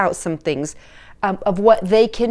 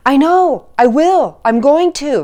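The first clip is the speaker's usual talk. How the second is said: put-on higher, louder lazy-teen brush-off; whiny teen excuses; 4 semitones higher, 6 dB louder than usual. Coach mimics a teen dodging chores, high and whiny. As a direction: toss off excuses like a teen on the couch. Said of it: "what's the phrase really?".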